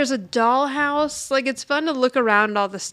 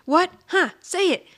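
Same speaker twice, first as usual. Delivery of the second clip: taunting dare; 7 semitones higher than usual. Retold or imitated. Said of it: "So she's like".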